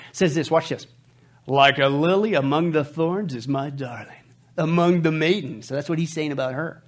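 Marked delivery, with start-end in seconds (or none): 1.5-5.7 scripture reading. Acted. Reads scripture.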